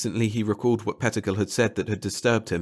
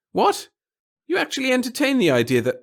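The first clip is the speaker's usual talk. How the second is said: high, shocked squeak of a bureaucrat; jolted, disbelieving; startled little official; 6 dB louder than usual. Acted. Pettigill startled.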